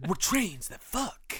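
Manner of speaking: slow, low bro drawl; frat bro. Pretend. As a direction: lean back and drag it out low. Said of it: "Why did you both do that?".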